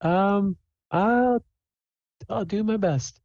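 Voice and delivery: very high, faltering character voice; Sable. Acted. Player's character answering the hostess, high and hesitant. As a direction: squeak it out haltingly, unsure of yourself. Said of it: "She's, she's like".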